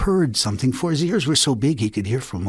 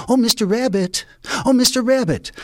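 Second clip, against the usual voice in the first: higher, louder eager calling; 10 semitones higher, 4 dB louder than usual. Acted. Woman in her garden calling out to passing Rabbit. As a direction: call out to get his attention.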